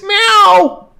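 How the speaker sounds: very high falsetto meow; squeaky imitation cat cry; cat meow from sink. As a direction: mew high like a cartoon cat. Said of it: "The sink says".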